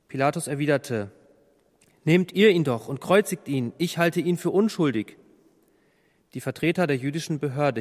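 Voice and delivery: measured, even narration of a Bible passage; clearly phrased Bible reading; scripture reading. A narrator's reading. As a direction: read the trial story aloud with restrained dialogue. Reads the Bible passage aloud.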